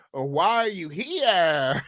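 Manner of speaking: slow, cracking-up half shout; laughing shout. Real, not acted. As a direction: blurt it out while laughing. Laughing at a commenter's question.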